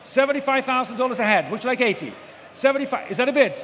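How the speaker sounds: brisk rhythmic auction calling; auctioneer. Real, not acted. Live auction calling bids.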